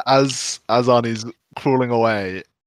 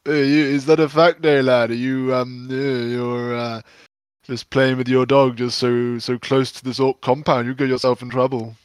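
put-on orc with a loosely Scottish accent; muddled Scottish accent. Disguised orc warns Arnulf off, in a muddled Scottish accent. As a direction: warn him in a regionally confused Scottish accent. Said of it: "in that accent".

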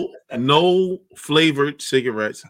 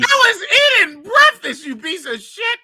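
outraged yelling; 4 dB louder than usual. Real, not acted. Yelling at friend over dropped breakfast, outraged. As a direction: wail it loudly in high-pitched outrage.

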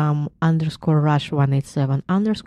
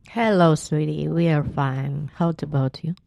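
put-on Southern accent. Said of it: "her version of trying to do a Southern accent".

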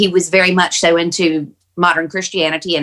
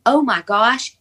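imitating a high cry of joyful revelation; sudden realization; 8 semitones higher, slower than usual. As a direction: let it soar up high, as Dad's dawning wonder. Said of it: "where he suddenly realizes".

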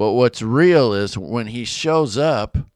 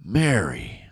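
retold tender call; 3 semitones lower, 3 dB quieter than usual. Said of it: "And Jesus says".

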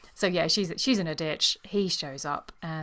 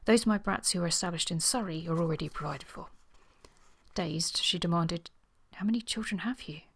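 measured novel reading, characters lightly acted; story narration with dialogue; faster than usual. A narrator's reading. Reading Sir Waldo and Miss Trent's quarrel to listeners, measured story narration. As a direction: read the romance aloud, lifting the dialogue a little. Reads novel excerpt aloud.

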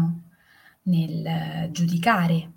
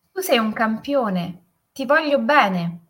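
raised, drawn-out call; affectionate shout; 4 semitones higher, 5 dB louder than usual. A narrator's reading. Father demonstrates the echo to his son, loving shout. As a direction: shout the praise out to the mountains. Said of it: "E urlò".

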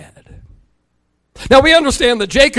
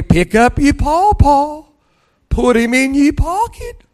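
put-on slow, higher, sing-song words to a baby on his knee; 4 semitones higher than usual. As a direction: coo it slowly to the grandbaby. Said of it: "I'll bounce her on my knee and I'll look at her and I'll say".

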